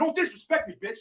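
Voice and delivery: worked-up angry shout. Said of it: "then he gets all worked up".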